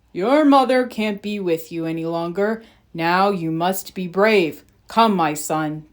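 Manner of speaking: grave father consoling his son; great prince. Acted. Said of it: "the great prince said".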